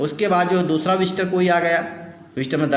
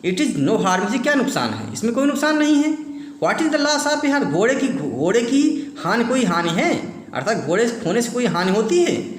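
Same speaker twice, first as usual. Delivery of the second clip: raised, indignant outburst with a laugh; mock angry uncle, higher and heated; retold angry shout; 5 semitones higher than usual. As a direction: scold the farmer like an irritated uncle. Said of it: "And shouted, चिल्ला उठे".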